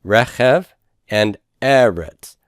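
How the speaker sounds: first syllables stressed in "Rechev" and "eretz"; non-final stress. Shown as a demonstration. Teacher reading out examples, first syllable stressed in "Rechev" and "eretz". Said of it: "we're stressing the E".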